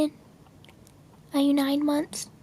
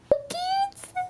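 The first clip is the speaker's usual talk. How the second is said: tearful coo; 14 semitones higher, 7 dB quieter than usual. Real, not acted.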